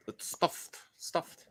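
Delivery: whispered echo. Acted. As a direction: breathe the words. Quiet echo after joke.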